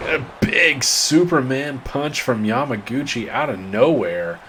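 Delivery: rising hype on the big move; wrestling commentator. Real, not acted. Live call of a big punch.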